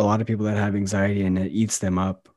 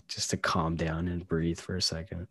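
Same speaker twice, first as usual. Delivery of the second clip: whispered self-calming; 3 semitones lower, 7 dB quieter than usual. Retold or imitated. Imagined calming self-talk quote.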